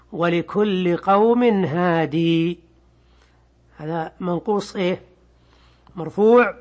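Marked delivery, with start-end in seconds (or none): 0.1-2.6 slow Quranic recitation with the final ya held; tarteel recitation. Shown as a demonstration. تلاوة آية بقراءة ابن كثير. (تلاوة قرآنية بطيئة)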